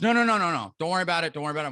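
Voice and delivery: the big son rushing to calm things down; son pleading. Retold or imitated. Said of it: "and he goes".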